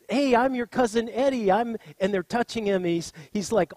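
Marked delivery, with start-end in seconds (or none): 0.1-1.5 loud, high, excited greeting; acting out an exuberant cousin; eager introduction. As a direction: burst in to introduce yourself to family. Relative introducing himself eagerly.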